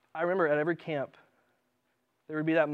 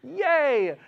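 mock cheer; 8 semitones higher, 6 dB louder than usual. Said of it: "you sound so happy".

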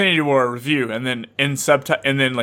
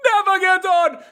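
high, slow, sing-song showman voice, much louder; mock red carpet host; 3 dB louder, slower than usual. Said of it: "You're like".

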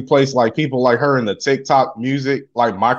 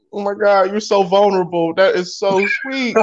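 gushing, put-on weepy voice; mock tearful; 4 semitones higher than usual. Co-host gushing over the husband's shout-out, mock tearful. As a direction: act moved to tears. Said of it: "I'm tearing up".

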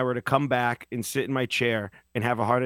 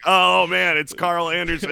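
higher, louder dopey answer; mock victim; 5 semitones higher, 6 dB louder than usual. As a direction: blurt the name like a clueless victim. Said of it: "And then be like".

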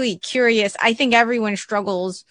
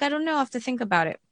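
hesitant client; 6 dB quieter, much faster than usual. Pretend. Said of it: "I'm a virtual client".

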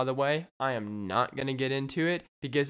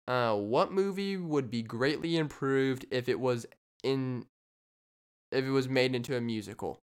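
quiz question read. Acted. Podcaster reads a listener question as a quiz host. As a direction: read it out like a game-show clue. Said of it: "Jeopardy style".

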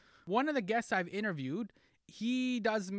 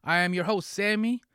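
loud, high showman welcome; booming sing song welcome; 3 semitones higher, 9 dB louder, slower than usual. Acted. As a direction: belt it like a game show host. Podcast host intro, booming welcome.

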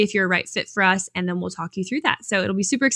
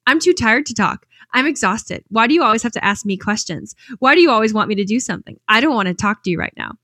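mimicking son; 2 semitones higher, 3 dB louder than usual. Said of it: "She goes".

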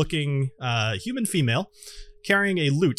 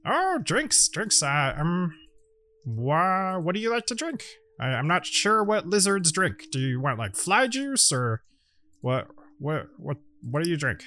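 gnome host; 4 semitones higher, slower than usual. Acted. Gnome host offers drinks.

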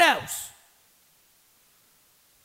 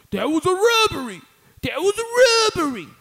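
indignant; 9 semitones higher, 7 dB louder than usual. Real, not acted. Indignant repeat.

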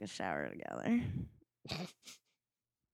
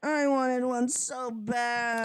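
slow, louder, whiny craving; craving drawl; 4 semitones higher, 5 dB louder, slower than usual. Acted. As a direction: drag out the craving. Craving hot dog, drawn out.

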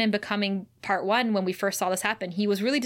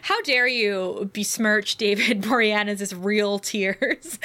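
slow laughing mock indignation; mock outrage; slower than usual. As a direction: pretend to be scandalized. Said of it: "mock outrage at co-host".

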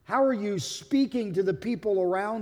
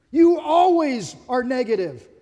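louder mock accusation; accusing; 2 semitones higher, 6 dB louder than usual. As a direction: hurl a spouse's complaint. Acted accusation in couple's argument.

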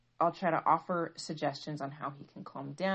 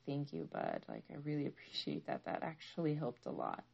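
tender thanks; 2 semitones lower, 7 dB quieter than usual. Retold or imitated. Thanking son after his hug.

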